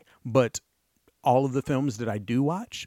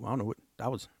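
laughing; 6 dB quieter, much faster than usual. Real, not acted. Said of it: "sorry, ooh".

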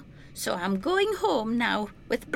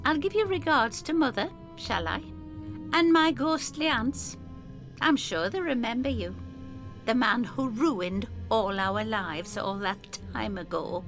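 higher, quick biting sarcasm; sarcastic Effie; 8 semitones higher, 4 dB quieter than usual. Acted. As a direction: twist the knife.

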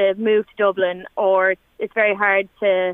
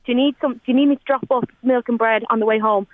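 a lightly voiced, higher, insistent friend; hint of a kind friend refusing help; friend insisting kindly; 4 semitones higher than usual. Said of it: "It was like".

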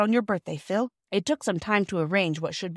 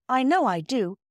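higher, uncertain admission; doubtful; 5 semitones higher than usual. A narrator's reading. Bobby admits liking the reward, doubtfully. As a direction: admit it with misgivings. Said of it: "said Bobby doubtfully".

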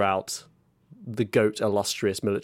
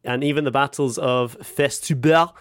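put-on French accent; 3 semitones higher than usual. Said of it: "is this a French accent?".

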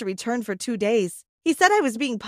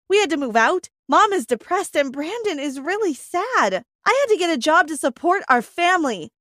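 loud, high furious outburst at father; angry scream; 4 semitones higher, 4 dB louder than usual. Acted. Daughter confronting her absent father, loud angry outburst. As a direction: let the anger rise and spill over. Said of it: "I screamed".

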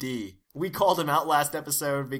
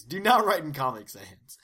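whispering. Pretend. Mock warning about the font.

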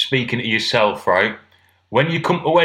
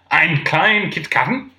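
slow, questioning mock German; bad German accent; 2 semitones higher, slower than usual. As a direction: order tentatively in clumsy German. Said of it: "I can't do accents".

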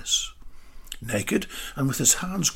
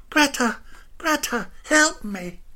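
calling for help; 12 semitones higher than usual. A narrator's reading. Des in the mud calls Greta for help. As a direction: call out to her from the mud. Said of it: "called to Greta for help".

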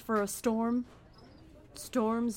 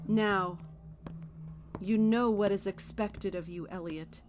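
a cold whisper of his name; hushed and ominous; menacing whisper; 2 semitones lower than usual. Acted. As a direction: whisper it like a threat. Leader's quiet menacing command.

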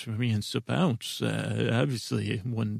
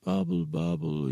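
high bubbly burble; bubbly cauldron voice; 7 semitones higher than usual. Pretend. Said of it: "could you be more of a bubble voice?".

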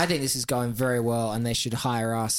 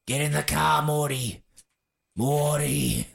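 lightly imitated Bogan Australian voice; a hint of broad Bogan Rick calling Morty; horrific Bogan accent. Co-host mimics Australian Rick calling Morty, mild Bogan accent. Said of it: "It's just horrific Bogan accent".

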